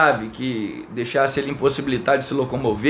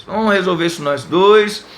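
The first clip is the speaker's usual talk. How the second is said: angry challenge; 4 dB louder than usual. Retold or imitated. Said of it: "Fiquei bravo".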